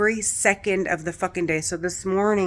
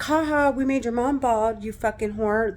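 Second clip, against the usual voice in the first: 1 sneering taunt; 4 semitones higher than usual. Retold or imitated. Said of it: "They're saying shit like that".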